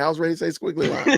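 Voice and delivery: laughing. Real, not acted. Laughs at missing squiggly lines.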